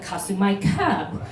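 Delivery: Kasumai Keb said slowly, falling on Keb; careful Kasumai Keb with a dropping end; answering the greeting carefully; slow Jola reply. Retold or imitated. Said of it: "And I said".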